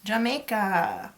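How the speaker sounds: put-on slow, playful Jamaican accent; light mock Jamaican accent; pretend Jamaican accent. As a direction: try on a Jamaican accent, drawn out. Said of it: "I'll try to do a Jamaican accent".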